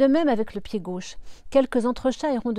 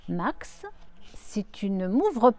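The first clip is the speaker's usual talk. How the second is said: threatening. Acted. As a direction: tease him with blackmail. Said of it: "le menace-t-elle". (menace espiègle qui monte en force)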